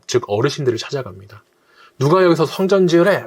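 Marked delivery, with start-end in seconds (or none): 2.0-3.3 higher, louder mock-confrontational demand; 따지는 threat, acted out. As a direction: challenge them like a TV-drama thug. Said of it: "막 이렇게 따지는 겁니다". (깡패처럼 따지듯 높고 크게 흉내)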